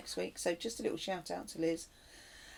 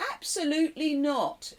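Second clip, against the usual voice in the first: put-on a light South African accent on absolutely not; 7 semitones higher, 5 dB louder than usual. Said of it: "in a South African accent".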